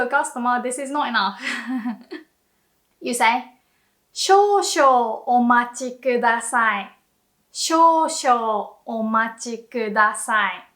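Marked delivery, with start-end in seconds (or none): 3.8-10.7 polite employee. Shown as a demonstration. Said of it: "how an employee is meant to talk".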